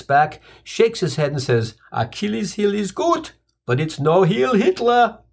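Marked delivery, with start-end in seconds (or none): 1.9-5.2 slow gruff voice, rising on Hitler; a hint of a smug brawny guy; tough guy verdict. Brawny guy's parting verdict.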